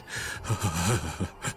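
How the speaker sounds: low, soft chuckle. Acted. Companion amused after talk of the cold, low chuckle. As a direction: chuckle quietly to yourself.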